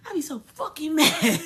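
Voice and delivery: half-laughing, half-fuming rant; laughing mad. Real, not acted. Laughing while ranting.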